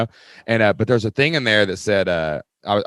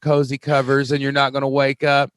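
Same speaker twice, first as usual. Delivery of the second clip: mock self-scolding emperor; 5 semitones higher than usual. Marcus scolding himself for lying in bed, hammed-up. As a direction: berate yourself for staying in bed. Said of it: "He's like".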